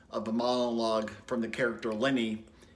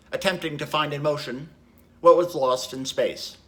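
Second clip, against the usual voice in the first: measured, lyrical stage monologue with pauses; Tom, reflective narrator; 5 semitones higher, 6 dB louder than usual. Acted. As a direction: recall it reflectively, building in intensity, then let it settle. Performs Tom's closing Glass Menagerie monologue.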